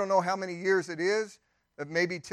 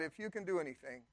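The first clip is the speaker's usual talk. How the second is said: incredulous hush; 12 dB quieter, faster than usual. Retold or imitated. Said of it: "imagine saying to God".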